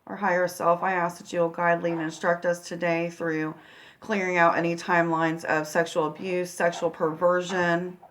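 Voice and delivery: soft, unhurried prayer with long pauses. Real, not acted. Healer praying to Source and angels before a guided meditation, quiet prayer. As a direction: pray quietly, asking for guidance.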